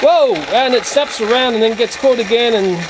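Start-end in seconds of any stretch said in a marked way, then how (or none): 0.0-0.4 startled high whoa, louder; real surprise at the toy train; sudden whoa. Real, not acted. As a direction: gasp it out as the train jerks. Train snaps around suddenly.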